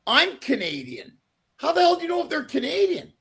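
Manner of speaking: retold indignant challenge, pitch jumping up at the end; fed up. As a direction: confront them, mildly exasperated. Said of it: "I finally got fed up".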